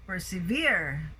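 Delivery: "persevere" as perseVERE; last-syllable stress. Shown as a demonstration. Teacher modelling the word, stress on the last syllable of persevere. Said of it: "So last syllable stress".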